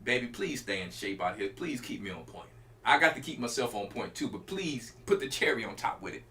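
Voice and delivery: low, weary pleading to the Lord; a tempted man begging, voice dropped low; man worn down by temptation, low, pleading. Retold or imitated. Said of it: "He like".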